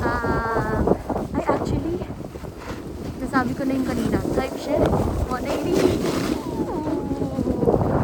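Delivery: spaced-out stoned talk. Real, not acted. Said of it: "sabog ako ngayon".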